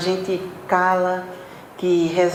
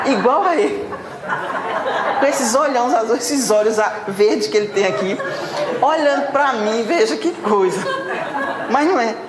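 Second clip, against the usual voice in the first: laughing; 3 semitones higher than usual. Real, not acted. Laughing about the wide-eyed man.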